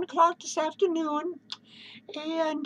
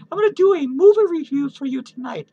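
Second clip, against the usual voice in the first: loud announcement; 6 dB louder than usual. Real, not acted.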